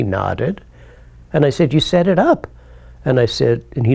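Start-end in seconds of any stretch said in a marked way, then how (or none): 1.7-2.5 astonished. Retold or imitated. Realizing the setup, astonished.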